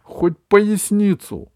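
high, loud shriek. Acted. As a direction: screech it in fury. Continuing furious shriek.

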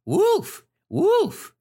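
very high-pitched acted shout; mock cry for help. Shepherd boy shouts a trick alarm to villagers, high mock shout. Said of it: "he shouted".

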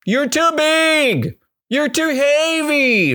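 high, slow, mocking animal voice; slow, high, sing-song taunt. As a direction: tease the elephant from way up high. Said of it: "always received the same reply".

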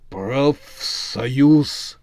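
breathy zombie exhaling the word; a dim zombie breathing it out; zombie exhale. A narrator's reading. Zombie foreman exhales to the witch. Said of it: "выдохнул бригадир".

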